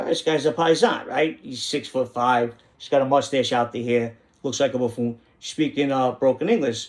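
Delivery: ordinary talk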